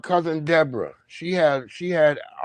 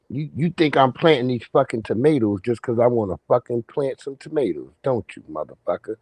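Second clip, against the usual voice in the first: gruff uncle; 3 semitones lower than usual. Retold or imitated. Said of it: "That's how he used to talk".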